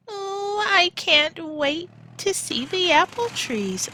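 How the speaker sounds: high eager voice; bubbling with excitement; excited. Acted. Minna eager to see the orchard trees, excited and high. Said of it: "said Minna".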